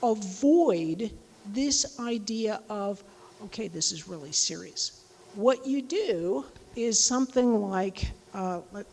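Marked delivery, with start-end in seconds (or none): 3.4-5.0 lowered, mildly grave delivery; a touch of sternness, pitched down as a bad example; understated show of seriousness; mock serious. Shown as a demonstration. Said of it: "you're saying something serious".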